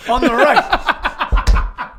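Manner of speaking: slow, drawn out "On the right"; stress on right. Acted. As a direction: correct him by dragging out "right". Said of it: "That's the left".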